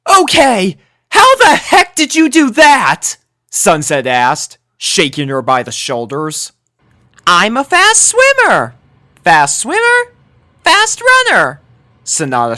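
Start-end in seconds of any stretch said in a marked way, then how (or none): 0.1-3.2 very high, loud disbelief; amazed demand. A narrator's reading. Sunset grabs Sanada demanding how she did it, high and loud. 7.3-11.6 put-on sweet concerned girl. A narrator's reading. Sanada checks on the injured Dash in a very high voice.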